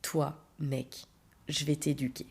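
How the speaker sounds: soft, low determined threat; thinking it to herself, low and cold; inner threat. Retold or imitated. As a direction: quietly promise to teach him a lesson. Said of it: "je me dis".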